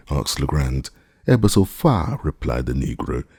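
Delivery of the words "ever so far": higher, carrying call from far up; calling from the treetop. A narrator's reading. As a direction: shout it back down. Jupiter calls from treetop.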